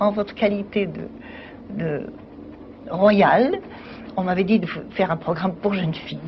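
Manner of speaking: plain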